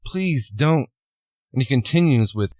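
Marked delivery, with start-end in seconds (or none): 0.1-0.9 mildly pleading, rising on the last words; retold begging. Woman begs V to stop, mild retold begging. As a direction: act out an understated plea. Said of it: "she begs and pleases".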